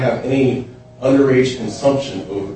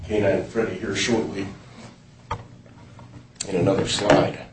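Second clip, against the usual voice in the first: hoarse, worn voice from a cold; raspy voice. Real, not acted. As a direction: speak through a sore, raspy throat. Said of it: "You have to excuse my voice".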